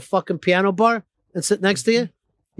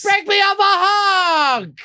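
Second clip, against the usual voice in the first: high, loud, drawn-out holler; mock diner shout; 11 semitones higher, 5 dB louder, much slower than usual. Host mimics diners ordering to share, high hammed-up shout. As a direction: holler it slowly across the table. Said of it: "so everybody can go like".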